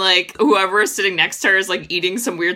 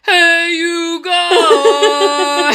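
bright, loud hey you guys; cheery greeting; 8 semitones higher, 5 dB louder, much slower than usual. Acted. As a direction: call out cheerfully, not creepy. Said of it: "That was better, right? Not as scary".

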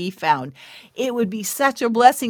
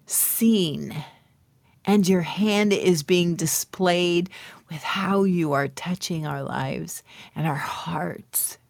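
prayer. Acted. Opens the show with prayer.

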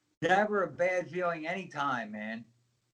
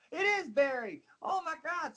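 much higher, breathless realisation; stunned recognition; 11 semitones higher, 4 dB quieter than usual. Retold or imitated. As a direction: gasp it out as it dawns on you. Recognising his old friend on TV.

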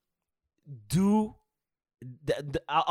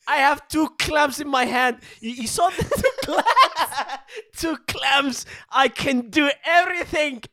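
put-on higher, louder proud baby voice; megalomaniac rant; 6 semitones higher, 3 dB louder than usual. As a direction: brag like a baby with new hands. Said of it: "They are like".

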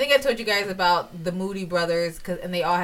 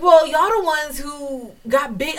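higher, louder, slow sassy retort; mock sass; 8 semitones higher, 6 dB louder, slower than usual. A kid talking back to the Moody brothers' mom, sassy. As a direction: throw it back at them with attitude. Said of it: "I was like".

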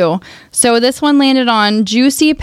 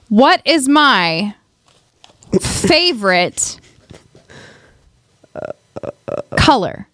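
drawn-out, suspenseful quiz question; slow dramatic question; much slower than usual. Shown as a demonstration. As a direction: stretch each word like a game host. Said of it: "quiz show pacing".

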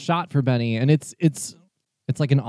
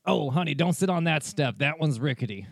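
lightly voiced Southern barkeep; a folksy touch of Southern twang; Southern bartender accent; 4 semitones higher, 3 dB quieter than usual. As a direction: put on a mild, changeable Southern accent. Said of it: "I don't know what this accent is".

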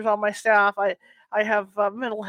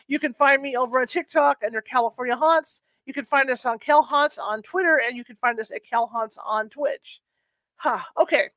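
out of breath; 2 semitones higher than usual. Real, not acted. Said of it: "I'm out of breath now".

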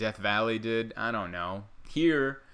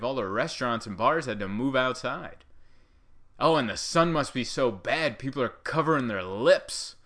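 exaggerated sing-song gushing, swooping up and down; mock naive amazement; 2 semitones higher, 3 dB louder than usual. Imagined passerby explaining away the lockdown as a heat wave, mock amazed. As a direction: play up a clueless onlooker's awe.

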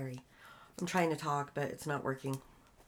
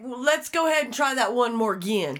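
imitating coworker; 4 semitones higher, 5 dB louder than usual. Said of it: "the shit this man says".

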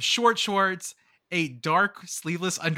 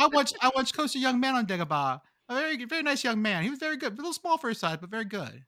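George Lucas impression; 5 semitones higher than usual. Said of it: "I'm George Lucas".

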